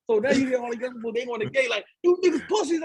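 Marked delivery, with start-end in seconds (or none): 2.0-2.8 high yelled taunt at the cops; a retold jailhouse shout, pitched high. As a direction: yell it up through the bars, high. Boys yelling on the gate.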